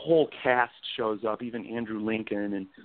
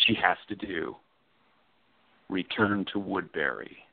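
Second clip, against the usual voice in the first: a book trailer read with weight; dramatic blurb read. Acted. Author reading his own blurb aloud, dramatic. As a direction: sell the book like a narrator.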